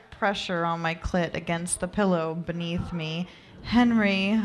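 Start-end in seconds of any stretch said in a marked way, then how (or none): 3.6-4.4 higher, rising moan; light, lifted moan; moaned name. Acted. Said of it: "I moaned".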